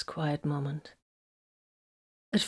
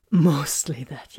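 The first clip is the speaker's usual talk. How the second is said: slow tender whisper; 3 semitones lower, 5 dB louder, slower than usual. A narrator's reading. Titus to Vox, slow whispered admission. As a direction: answer slowly, barely voiced.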